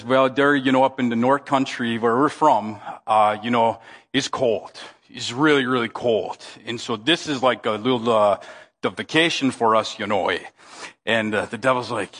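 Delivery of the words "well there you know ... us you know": put-on North Country accent. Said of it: "Sven just says".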